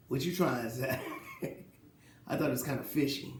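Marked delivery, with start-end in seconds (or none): 0.1-1.6 chuckling through the question; laughing. Real, not acted. Mocks Isaiah's stolen medals story, laughing. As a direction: laugh while asking it back.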